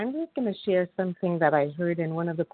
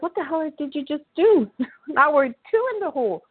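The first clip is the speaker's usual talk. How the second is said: higher, louder, with a laugh; laughing disbelief; 8 semitones higher, 5 dB louder than usual. Retold or imitated. Man in hole reacting to the rescuer jumping in, higher laughing disbelief.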